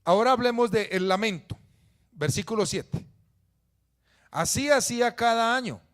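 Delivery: loud, high sermon delivery; preaching at full force. Acted. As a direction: proclaim the verse to the whole church. (predicación a todo pulmón)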